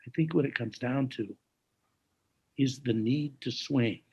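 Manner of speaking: hushed New Jersey, weighing each word; New Jersey accent. Retold or imitated. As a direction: imitate a pensive jazzman's light New Jersey accent. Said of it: "he had this New Jersey accent".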